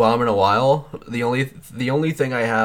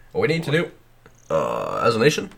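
halting presidential impression; Barack Obama. Comic addresses the nation as Obama, halting mock oratory. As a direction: speak in short bursts with pauses between. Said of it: "the key to talking like Barack Obama".

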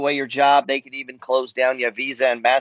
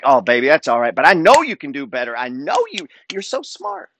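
tender parent. Retold or imitated. Parent reassuring a child who got a C, tender. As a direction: coax the kid gently. Parent comforting kid after a C.

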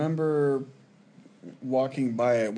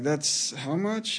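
slow, stunned question; shocked disbelief; 4 semitones higher, much slower than usual. Retold or imitated. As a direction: sound floored by the price.

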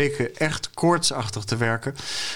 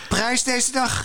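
high, exultant proclamation; heroic cry; 13 semitones higher, slower than usual. A narrator's reading. Fons announcing himself to the farmers, crying out. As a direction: proclaim it like a storybook knight. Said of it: "riep Fons".

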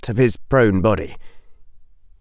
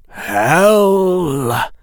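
calm; 9 semitones higher, 3 dB louder than usual. Acted. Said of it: "the calm voice of the defense professor".

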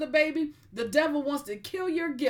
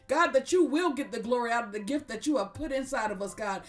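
prayer. Acted. Leads a closing prayer.

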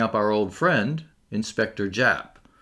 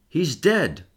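higher-pitched, shaken announcement; agitated; 6 semitones higher than usual. A narrator's reading. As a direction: break bad news with restrained agitation. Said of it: "his voice strangely agitated".

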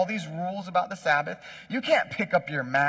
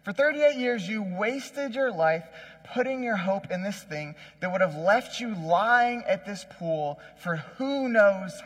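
higher-pitched, drawn-out emphatic admonishing; earnest reminder; 5 semitones higher, slower than usual. Acted. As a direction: drive the warning home, stretching the key words. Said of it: "is reminding this man".

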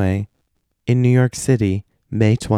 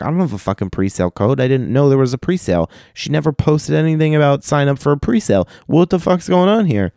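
mock panic climbing higher and higher; retold freak-out, rising in pitch; 5 semitones higher than usual. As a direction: build from protest into high-pitched disbelief. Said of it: "So now I'm freaking out".

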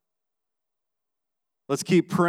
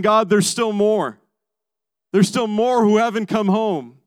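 raised, higher, urgent prayer; crying out to God; 4 semitones higher, 5 dB louder than usual. Retold or imitated. Preacher voicing the psalmist praying for those still away, crying out. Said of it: "he's crying out to God".

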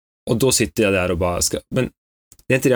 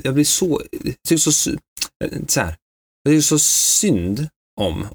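usual speaking voice

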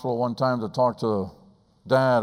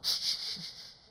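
put-on whispered shh to hush a child; shushing; 10 dB quieter than usual.

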